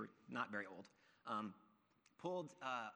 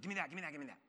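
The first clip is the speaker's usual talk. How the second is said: grabby robber; 3 semitones higher, much faster than usual. Retold or imitated. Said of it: "he was like".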